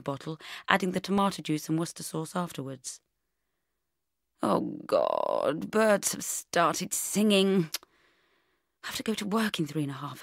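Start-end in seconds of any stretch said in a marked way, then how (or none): none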